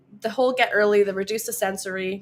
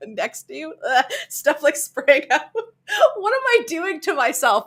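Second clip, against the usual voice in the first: disgusted laughter; 5 semitones higher, 3 dB louder than usual. Real, not acted. Grossed out, laughing.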